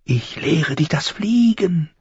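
high, slow crow voice; high, thin voice. A narrator's reading. Crow teaches crying boy to fly, high and thin. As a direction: answer slowly in a thin bird voice. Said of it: "Die Stimme klang hoch und dünn".

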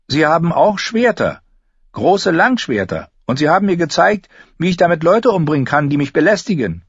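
high, quickening warning to back off; heated young girl warning someone away; boastful threat. A narrator's reading. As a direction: brag fiercely, speeding up into a threat. Girl warns off a nosy boy.

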